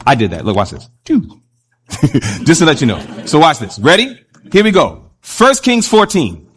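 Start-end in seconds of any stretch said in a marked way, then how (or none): 1.9-2.4 brief, low, quiet chuckle; small low laugh to himself; soft chuckle. Real, not acted. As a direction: chuckle softly under the talk. Chuckles after blanking the screen.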